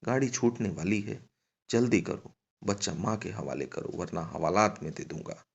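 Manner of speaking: mildly stern constable's order; understated official threat; stern warning. Acted. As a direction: warn her with a touch of sternness. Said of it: "हवलदार ने अब की बार कड़क कर कहा".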